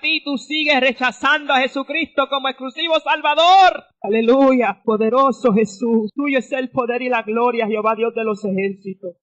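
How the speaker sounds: fervent radio preacher praising aloud; preaching. Acted. Preacher calling listeners to Jesus on the radio, fervent preaching. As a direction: proclaim and praise with conviction.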